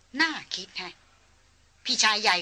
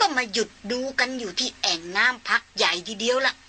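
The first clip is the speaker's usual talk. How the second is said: put-on old hunter; 3 semitones higher than usual. Old hunter calls back his reading.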